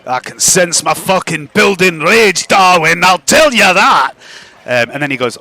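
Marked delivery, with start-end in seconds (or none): 0.1-4.1 lightly voiced irate little creature; sarcastic, sweary grumble at a companion; a touch of simmering rage; fuming mushroom creature. Game master plays fuming mushroom creature.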